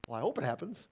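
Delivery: softly shrugging, noncommittal "Well, I hope it happens."; a lightly voiced half-hearted wish; mock wishy-washy hope. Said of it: "does not mean".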